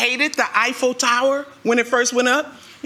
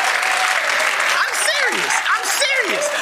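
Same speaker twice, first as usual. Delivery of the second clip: mock serious; 9 semitones higher, much slower than usual. Mock serious after laughter.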